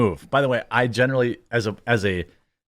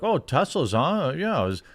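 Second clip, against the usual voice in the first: annoying chatty passenger. Retold or imitated. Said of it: "He would say something stupid like".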